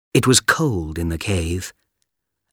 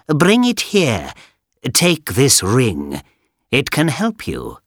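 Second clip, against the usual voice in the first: sly villain voice; 4 semitones higher than usual. Acted. Wicked magician voiced.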